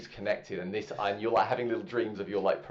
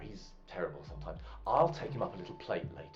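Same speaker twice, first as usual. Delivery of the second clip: Roger chatting. Acted.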